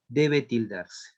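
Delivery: slow, measured close to a dictated answer; slow dictation. Real, not acted. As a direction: dictate it slowly, word by word. Termina de dictar la respuesta. (dictado lento y pausado)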